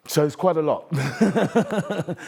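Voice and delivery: breaking into a real laugh mid-sentence; amused, laughing out loud while talking. Real, not acted. Laughs at the character's heavy burden.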